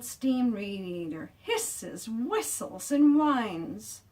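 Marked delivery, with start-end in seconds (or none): 1.4-4.0 loud. A narrator's reading. Radiator noise acted.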